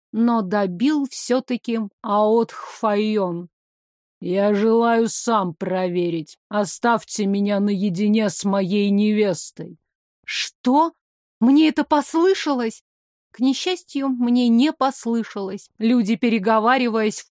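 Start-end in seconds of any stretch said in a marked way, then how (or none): 4.2-9.8 dragon king voice. Acted. 10.2-12.8 stunned disbelief, high; can't believe her ears; shocked. Acted. Heroine shocked by demand.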